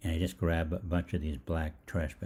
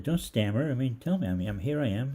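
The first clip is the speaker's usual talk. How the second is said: pushy demand; 6 semitones higher, 4 dB louder than usual. Retold or imitated. Pushing the clerk to answer.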